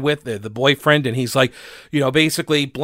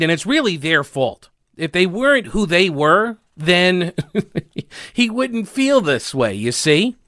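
sarcastic mock excuse; 3 semitones higher than usual. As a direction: blame them sarcastically.

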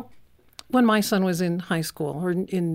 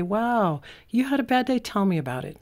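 sympathetic spouse; 5 semitones higher than usual. Retold or imitated. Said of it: "I want him to say".

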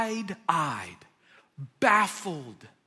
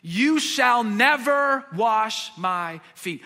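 louder, slow, firm protest; indignant refusal; 2 semitones higher, 6 dB louder, much slower than usual. Retold or imitated. Peter refusing Jesus, indignant and firm. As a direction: plant your feet and refuse. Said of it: "still indignant".

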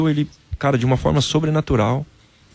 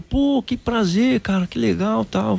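much higher, slow, delighted exclamation; overjoyed pastor; 10 semitones higher, much slower than usual. Retold or imitated. Pastor thrilled that the football player is on the phone, excited high voice. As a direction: gush with joy at the famous caller. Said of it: "O pastor ficou numa alegria".

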